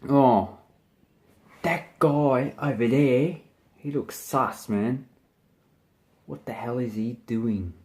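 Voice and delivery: casual Aussie usage. Shown as a demonstration. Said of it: "you would say".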